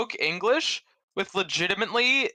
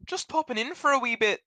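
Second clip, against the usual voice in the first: put-on Scottish accent; 5 semitones higher, faster than usual. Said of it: "That's Scottish".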